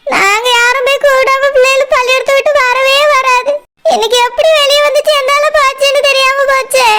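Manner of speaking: tearful mother, voice breaking; mildly tearful pleading; crying. Acted. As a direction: sob through the words, worried sick over her children. Mother crying over missing children.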